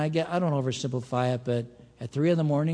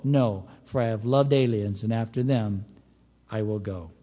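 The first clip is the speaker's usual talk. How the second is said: measured, declamatory Bible reading; scripture reading. Acted. Preacher reading God's rebuke to Israel, solemn scripture reading. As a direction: read the verses out with deliberate phrasing. Reads scripture aloud to congregation.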